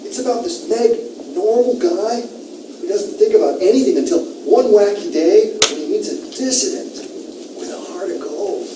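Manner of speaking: high, loud douchebag movie pitch; hammed-up surfer dude selling a story. Teacher pitching the story as Titus, in a surfer-dude douchebag voice. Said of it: "in a kind of surfer dude, uh, douchebag, uh, voice".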